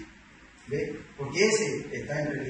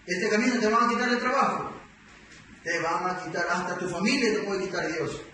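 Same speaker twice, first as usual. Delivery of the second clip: raised, higher-pitched preacher's warning; stern warning; 3 semitones higher than usual. Retold or imitated. Pastor warns a new convert of the hard road, stern warning.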